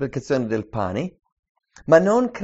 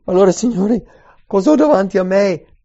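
much louder, higher frightened plea to the Lord; terrified cry; 5 semitones higher, 11 dB louder than usual. Pretend. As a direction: cry out in dread of judgment. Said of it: "è terrorizzato".

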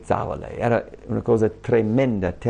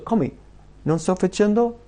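incredulous; 7 semitones higher than usual. Acted. Incredulous rebuttal of the whiner.

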